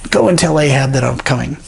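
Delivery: lightly gruff prophet's command; a hint of a gruff prophet, quick. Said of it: "you know, gruff voice".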